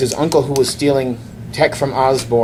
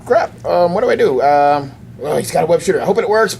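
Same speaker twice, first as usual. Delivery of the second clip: put-on panicked kid; 3 semitones higher than usual. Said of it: "It's like".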